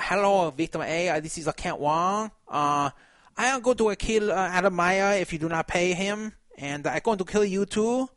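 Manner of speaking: hammed-up fake Asian accent threat. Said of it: "like, a fake Asian accent".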